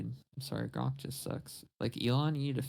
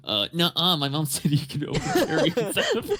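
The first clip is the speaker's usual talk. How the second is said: loud, higher bratty cartoon voice; Cartman; 5 semitones higher, 9 dB louder than usual. Kid refusing to leave the store, cartoon impression with laughter. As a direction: argue back like a cartoon kid, cracking up. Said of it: "where fucking Cartman goes to Publix".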